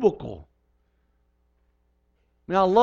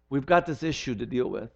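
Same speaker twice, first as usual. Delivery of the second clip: gentle voice; 4 semitones lower, 4 dB quieter than usual. Retold or imitated. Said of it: "listen to the voice of the one".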